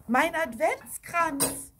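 slow, high, loud outcry; drawn-out mock scream. A narrator's reading. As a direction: cry out in dismay. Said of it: "schrie eine Frau".

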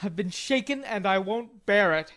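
put-on offended young man grumbling; indignant growl. A narrator's reading. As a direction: protest with wounded pride. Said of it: "growled Laurie indignantly".

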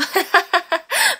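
high loud burst of laughter. Real, not acted. Streamer laughing at the nickname she gave. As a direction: cackle in real delight.

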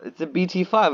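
a pointed correction of "B T five"; insistent told-you. Real, not acted. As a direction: insist on "B T five" like it's obvious. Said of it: "I told you".

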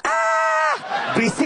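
very high shriek then a snapped hush; scream, then get told off for noise; cheering scream, shushed. Retold or imitated. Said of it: "ceweknya teriak". (cewek menjerit tinggi lalu ditegur berisik)

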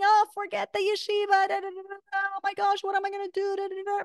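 mock fretting. Teacher imitating a worrier over the yeshiva, mock fretting. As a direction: fret in a high voice, trailing into da-da-da.

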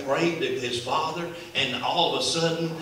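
building to a loud, high shout; preaching at full force. Acted. Preacher voicing the little boy's testimony to the congregation, loud and high. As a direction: climb into a triumphant preaching cry.

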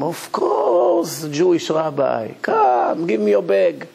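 host greeting the rabbi eagerly. Retold or imitated. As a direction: welcome the guest with open arms. Host warmly welcoming the rabbi.

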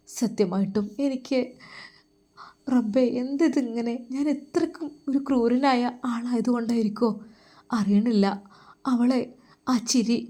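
put-on young man torn, pleading softly to God; a lightly voiced troubled lover, hushed; Faizal's anguished prayer. Faizal alone in his room, praying, softly anguished. Faizal's tense night monologue.

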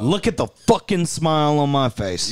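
movie quote impression. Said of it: "You sounded better".

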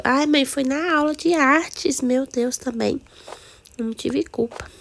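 put-on little girl protesting her innocence; child making excuses. Daughter excuses painted face.

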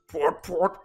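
"prut, prut" pitched low; low-register "prut, prut"; warm-up sounds. Shown as a demonstration. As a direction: drop "prut, prut" down for a low voice exercise. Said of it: "så siger du efter mig".

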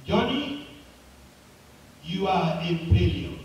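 echoing voice. Acted. Mountain sends the boy's words back, acted echo. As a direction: echo of a boy's call, dropping on the last phrase. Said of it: "a voice came back, just like his voice".

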